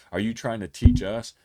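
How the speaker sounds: mock outraged leaders; indignant outburst. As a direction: snap back at the upstart. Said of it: "they lose it".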